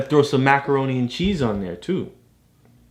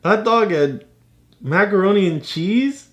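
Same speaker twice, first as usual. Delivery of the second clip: high, laughing silly question; amused disbelief; 10 semitones higher than usual. Real, not acted. Dad laughing at the odd pizza toppings. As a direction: tease it as ridiculous.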